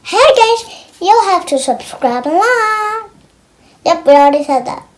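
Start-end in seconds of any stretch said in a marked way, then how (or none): 0.0-3.1 Lulu's voice. Pretend. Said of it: "Lulu wants to say something".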